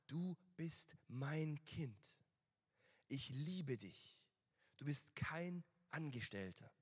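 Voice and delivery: tender father. Retold or imitated. Preacher voicing the father tenderly to his son. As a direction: gently reassure a son he is loved. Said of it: "Der Vater sagt".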